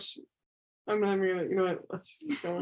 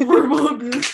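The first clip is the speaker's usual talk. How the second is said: louder, breaking into laughter mid-phrase; laughing; 5 semitones higher, 9 dB louder than usual. Real, not acted. Co-host joking about a missed TV character, laughing. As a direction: let a real laugh interrupt the words.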